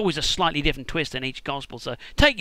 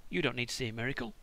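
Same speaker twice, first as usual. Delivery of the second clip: softer, calm hypnotic command; Jedi mind trick; 7 semitones lower, 11 dB quieter, faster than usual. Pretend. Jesus mind-tricking the guards, soft hypnotic command. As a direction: lull them like an Obi-Wan mind trick. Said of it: "He basically says".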